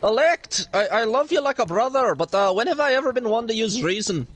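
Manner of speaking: lightly put-on Irish accent; casual mock Irish brogue for laughs. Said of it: "in an Irish accent".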